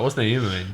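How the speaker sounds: NOEMA said as no-EE-ma; mistaken pronunciation. Retold or imitated. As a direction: ask with Noema in three syllables. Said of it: "I did that same mistake".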